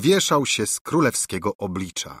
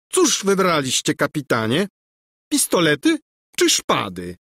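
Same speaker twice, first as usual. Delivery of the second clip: overly gracious prince; pompous prince; 7 semitones higher than usual. A narrator's reading. Boastful prince asks weapon. (napuszony książę wita kapitana)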